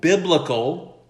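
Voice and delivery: "biblical" drawn out and ironic, held at arm's length; scare-quoted word. Real, not acted. Preacher holding "biblical" at arm's length, ironic and slow. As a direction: say "biblical" slowly with a wry rising tune, as if in quotes.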